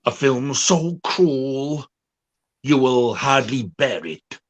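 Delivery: slow mock French trailer voice, French accent; a French narrator's accent, drawn out dramatically. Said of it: "the narrator in the trailer sounds French".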